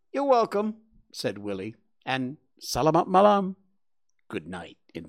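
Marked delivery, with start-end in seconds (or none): 0.1-0.8 put-on boy voice. Willie answers the warthog. 2.6-3.5 put-on boy voice. Willie says good night.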